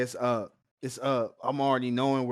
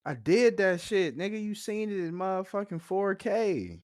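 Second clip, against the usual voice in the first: mock bold confession; 8 semitones higher than usual. Friend repeating Odysseus' admission as a hyped boast. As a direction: own it like a boast.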